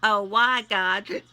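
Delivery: pleading, prayerful read; heartfelt prayer. Acted. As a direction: pour it out to God in prayer. Spoken prayer to God.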